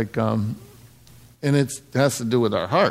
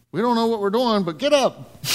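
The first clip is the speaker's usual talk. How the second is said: rousing command; 8 semitones higher than usual. Acted. Acting out the order to march.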